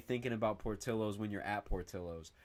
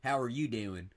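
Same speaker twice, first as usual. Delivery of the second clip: mock southern accent; lightly imitated cowboy accent; imitated southern Indiana accent. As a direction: put on a southern twang. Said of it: "Where the fuck you get that accent from".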